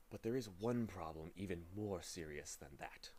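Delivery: soft, ominous low warning; quiet dread. Acted. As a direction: hush it like a dark secret. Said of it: "he whispered ominously".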